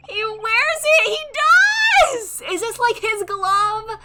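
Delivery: high, loud, drawn-out wail; overwhelmed squeal. Real, not acted. Streamer sees him wear his friend's keepsake, overwhelmed squeal. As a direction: cry out slowly, voice soaring.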